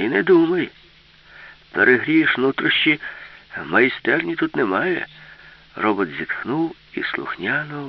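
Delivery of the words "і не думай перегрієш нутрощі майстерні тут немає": raised, higher voice of warning; calling out. A narrator's reading. Herman stops the robot undressing, calling out loudly. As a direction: call it across, loud and forbidding. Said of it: "гукнув йому Герман".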